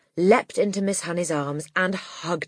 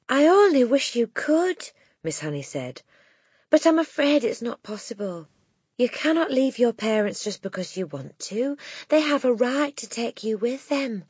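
gentle regret; 6 semitones higher than usual. Acted. Miss Honey voiced.

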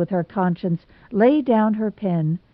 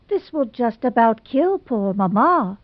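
sobbing; 4 semitones higher than usual. Acted. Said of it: "sobbed Hazel".

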